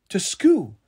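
horrified. A narrator's reading. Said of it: "Bindweed repeated, horrified".

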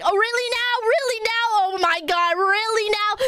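imitated exasperated ajumma in English; mock scolding. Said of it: "like, yelling at us".

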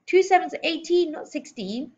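high-pitched schoolboy correcting himself; crying out. A narrator's reading. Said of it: "he cried".

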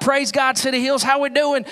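playful try at a Kentucky-twang preacher; twangy preacher voice. Shown as a demonstration. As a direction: put on a little Southern preacher twang. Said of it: "a little twang for my preacher voice".

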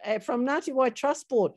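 a touch of a thankful client's lift; grateful client. Retold or imitated. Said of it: "they're more likely to say".

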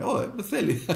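high teasing call breaking into a laugh; can't keep a straight face on the come-on; giggly mock pickup line; mock catcall, laughing. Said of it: "Τι θα σφυρίξεις".

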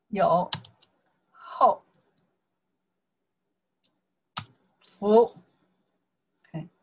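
each syllable slow and apart, with long gaps; teacher sounding out each syllable of the idiom. Shown as a demonstration. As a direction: spell out 必有后福 one syllable at a time. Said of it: "You guys can see here".

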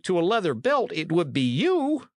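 put-on an old bowman calling out; old archer. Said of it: "cried the old archer".

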